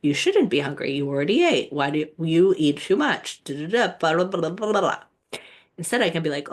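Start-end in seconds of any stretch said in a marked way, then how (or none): 0.0-5.0 lightly mocking the nagging voice of culture; inner critic. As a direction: rattle off the scolding, half-mocking. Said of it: "I might start a whole rendition of".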